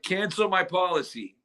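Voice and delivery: measured request to an automated line; caller to a phone bot. Retold or imitated. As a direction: state it plainly for a machine.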